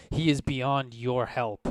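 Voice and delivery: firm, slow angry refusal; angry guard, spacing the words out slowly. Acted. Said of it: "angrily says".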